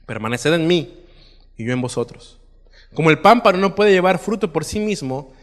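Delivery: projected, declamatory Bible reading; preacher reading scripture aloud. Acted. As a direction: read the passage out to a congregation, leaning into each opening phrase. Reads scripture aloud to congregation.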